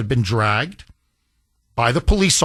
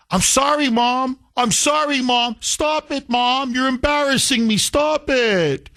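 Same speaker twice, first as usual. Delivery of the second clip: put-on higher, pleading teen whine; whiny son; 7 semitones higher than usual. Teen son begging his hitting mother to stop, higher whine. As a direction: beg like an embarrassed teen. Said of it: "he's like".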